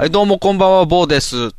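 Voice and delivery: hint of a smooth Tokyo host; mock Shitara voice. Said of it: "そんな喋りになってくるの？". (標準語のラジオ司会者をまねた軽い声)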